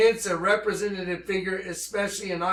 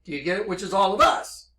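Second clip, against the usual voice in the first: normal talking voice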